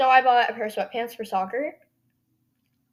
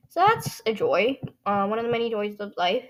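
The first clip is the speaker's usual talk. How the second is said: sarcastic. Real, not acted. Teen vlogger on having no friends at soccer, sarcastic. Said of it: "pure sarcasm".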